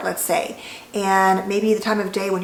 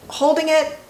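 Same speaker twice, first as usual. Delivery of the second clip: higher, strained voice while holding the breath; 7 semitones higher than usual. Shown as a demonstration. Demonstrating breathing to viewers, voice tight on a held breath. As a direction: speak as if lungs are full. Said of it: "what this looks like".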